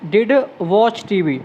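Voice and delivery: "did" said twice, the second slow before "watch TV"; stress on did. Shown as a demonstration. Teacher repeats "did" to stress it for students. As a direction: hammer did home. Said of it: "force".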